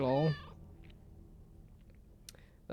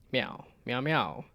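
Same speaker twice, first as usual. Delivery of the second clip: playful meowing that climbs higher and louder; cat meows; 4 semitones higher, 6 dB louder than usual. Acted. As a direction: meow like a chatty cat. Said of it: "We're just not gonna translate it".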